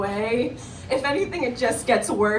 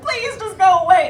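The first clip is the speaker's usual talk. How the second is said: loud, higher panicked plea; frantic crying; 9 semitones higher, 9 dB louder than usual. Retold or imitated. Fleeing the dolphin, frantically pleading it to go away. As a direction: beg it to leave in a panic. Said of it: "frantically crying".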